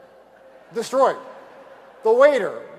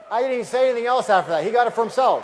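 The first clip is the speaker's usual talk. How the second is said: fired-up; 4 semitones higher, 8 dB louder than usual. Real, not acted. Triumphant story payoff.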